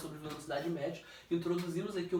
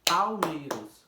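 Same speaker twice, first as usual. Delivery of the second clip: "Palmeiras" stretched slow and loud; syllables beaten out; 6 dB louder, much slower than usual. Shown as a demonstration. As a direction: pound out each beat of "Palmeiras". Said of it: "me ensinou a bater palma". (Palmeiras bem marcado, devagar e forte)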